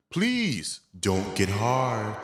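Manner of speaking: very slow, drawn-out plea to himself; slow praying. Retold or imitated. Praying silently while spooning the girl, slow and pleading. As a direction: drag each word out like a desperate prayer. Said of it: "I'm praying".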